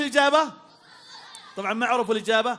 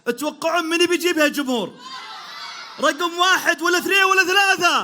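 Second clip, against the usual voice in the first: crowd hype shout; 4 semitones higher than usual. Real, not acted. Host hyping the audience.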